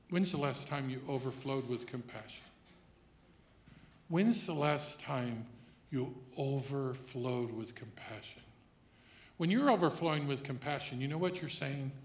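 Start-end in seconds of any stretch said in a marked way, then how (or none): 4.1-8.4 slow, weighty question; slow, pointed repeat. Real, not acted. Preacher pressing congregation on compassion, slow and pointed. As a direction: draw the question out so it sinks in.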